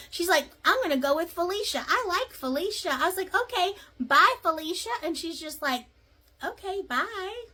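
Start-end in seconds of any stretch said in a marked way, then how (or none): 0.6-2.9 mock chirpy choice. Woman picks a name. 3.3-4.9 sassy dismissal. Retold or imitated. Server dismisses her sassily. 6.4-7.4 confused bye. Retold or imitated. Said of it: "looked at her all confused".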